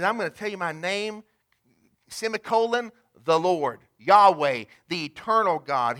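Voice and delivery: rising to a loud Yahweh; proclaiming the name. Shown as a demonstration. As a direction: announce the Lord, Yahweh like a herald. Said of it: "He says it just like that".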